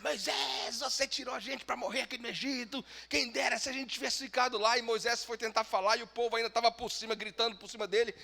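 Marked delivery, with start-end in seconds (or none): 0.0-4.8 a touch higher grumbling voice; lightly voiced accusing crowd; complaining crowd. People complaining to Moses.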